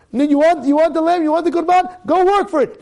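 high, pushing challenge; telling Abraham to go work for the lamb, high and goading; challenging voice. Retold or imitated. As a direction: dare him to earn it. Voicing heaven's challenge to Abraham.

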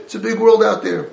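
a lightly voiced stern father laying down the rules. Imagined God scolding his exiled children, lightly stern. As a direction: scold them like a parent who holds all the power. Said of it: "I would have thought that Hashem".

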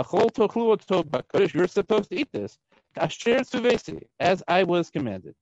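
high-pitched indignant scolding; angry tirade. Acted. Moshe telling Aaron's sons what he was commanded, angry tirade. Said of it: "now this is a tirade".

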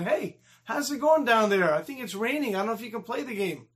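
acted bully's mock innocence; mocking taunt. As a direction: call down teasingly at the kid on the ground. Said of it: "he heard the boys laughing".

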